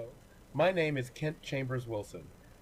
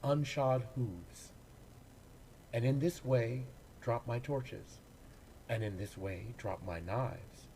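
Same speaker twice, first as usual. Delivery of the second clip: poetry reading. Acted. Actor reading a horse poem for the service, reflective recital. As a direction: let the images unfold gently, phrase by phrase.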